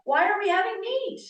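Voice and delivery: high, incredulous question about the meat; a sharp, amazed high rise on "are"; retold surprise. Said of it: "I said".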